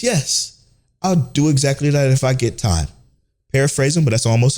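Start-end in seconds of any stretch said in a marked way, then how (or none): 0.0-2.9 mock girlfriend. Mocking girlfriend's eager reply.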